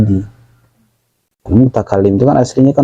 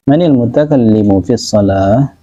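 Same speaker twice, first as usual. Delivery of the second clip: gentle asking; slower than usual. Shown as a demonstration. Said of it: "seorang Rasulullah yang latif, lembut".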